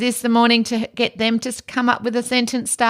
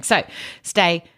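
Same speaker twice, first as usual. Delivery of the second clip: calm voice; slower than usual. Real, not acted. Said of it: "I can feel myself in my very calm voice today".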